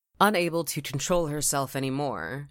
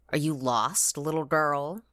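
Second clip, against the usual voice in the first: lightly voiced ancient crone; a hint of an old woman asking gently. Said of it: "the ancient old lady holding the light, responded".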